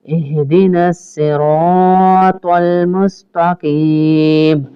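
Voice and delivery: drawn-out chanted Arabic verse; tajweed recitation; slow Quran recitation. Shown as a demonstration. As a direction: recite it slowly for the class to follow. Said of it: "ताकि आप साथ repeat कर सकें".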